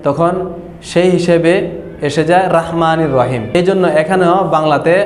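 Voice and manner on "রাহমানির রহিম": রাহমানির with open aa after র; wrong Bangla reading. Shown as a demonstration. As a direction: say রাহমানির with a thin ra. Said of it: "বাংলাতে যখন আমরা জবর দিয়ে".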